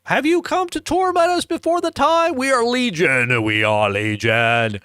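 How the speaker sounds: high, eerie demon pleading. Acted. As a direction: cry it out like a tormented demon. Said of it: "They would cry out".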